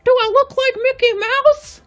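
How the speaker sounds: very high falsetto cartoon mouse; Mickey Mouse. Shown as a demonstration. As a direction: squeak it out in a piercingly high mouse voice. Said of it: "this is my Mickey Mouse impression".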